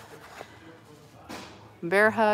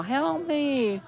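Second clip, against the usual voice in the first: tiny trapped figure; 7 semitones higher than usual. Pretend. Voicing a figure in a glow ball.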